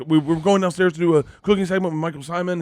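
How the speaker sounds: high-pitched, retold nervous babble; spiraling rambling. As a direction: reenact rambling yourself into trouble. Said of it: "It was spiraling out of control".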